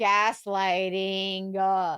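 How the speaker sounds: knowing drawl. Real, not acted. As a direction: stretch gaslighting out slow and low. Naming his behaviour knowingly.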